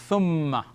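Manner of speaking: "thumma" with a held, doubled m; pronunciation model. Shown as a demonstration. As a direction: say "thumma" clearly for learners, lingering on the m. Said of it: "And it is pronounced".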